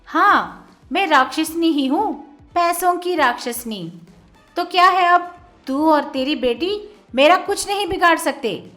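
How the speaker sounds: very loud, high gloating yell; furious shout. A narrator's reading. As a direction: roar at them, rising to a scream. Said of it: "वो और भी जोर से डांटती है".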